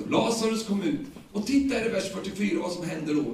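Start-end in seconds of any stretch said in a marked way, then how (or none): 0.1-1.0 loud call. Retold or imitated. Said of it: "ropar han med hög röst".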